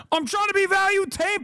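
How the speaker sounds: a hammed-up high whine; mock squeak. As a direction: squeak the phrase like a mocking child. Mocking squeal of own line.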